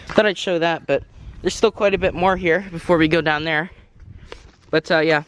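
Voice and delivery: breathless, winded voice; out of breath. Real, not acted. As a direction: talk while catching your breath. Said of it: "Sorry I sound out of breath like usual".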